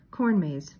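matter-of-fact. Acted. Velma corrects Shaggy, matter-of-fact and firm. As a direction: state "Corn maze" flatly, as a known fact. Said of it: "Velma said matter-of-factly".

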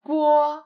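"bo" with no puff of air on the b; plain unaspirated "bo". Shown as a demonstration. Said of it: "Different from".

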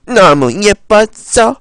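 slow, lightly voiced lovestruck man; drawn out like a lost memory; dreamy character voice. (몽환적인 남자 목소리)

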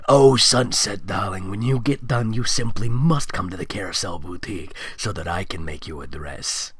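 lightly voiced British socialite; a hint of posh British lady; mildly posh British accent; posh British Rarity. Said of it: "in the British accent with a hint of high society".

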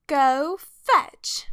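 mildly barked storybook order; barked command. A narrator's reading. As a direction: bark it like a principal's command. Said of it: "barked Miss Begolot".

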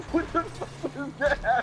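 high, loud shriek of shock; startled yell. Real, not acted. Startled by something in game.

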